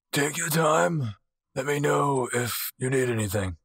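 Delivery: politely see guests off, unhurried; courteous host character. Acted. Game master voices Alwyn at door.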